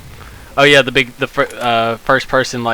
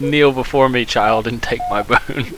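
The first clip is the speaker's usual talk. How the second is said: cold rasping evil emperor; 4 dB louder than usual. Pretend. Playing a god granting boon.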